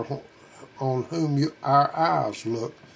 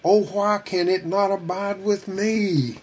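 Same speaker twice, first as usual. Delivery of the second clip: higher, drawn-out lament, understated; mild pleading cry; 4 semitones higher than usual. Acted. Believer longing for God's love to stay, mild pleading cry. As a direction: plead slowly on a raised pitch, without shouting. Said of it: "is there not a cry".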